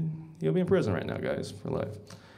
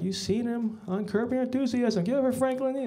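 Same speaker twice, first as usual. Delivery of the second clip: pitched-up hype host intro; mock emcee; 8 semitones higher than usual. Emcee introducing Frank to the crowd, hyped. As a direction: sell him to the crowd. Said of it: "They're like".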